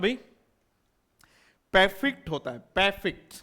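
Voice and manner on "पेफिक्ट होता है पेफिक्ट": परफेक्ट said as "PE-fikt", no r; correct pronunciation. Shown as a demonstration. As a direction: repeat परफेक्ट as "pefikt" for the class. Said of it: "होता है इसका transcription".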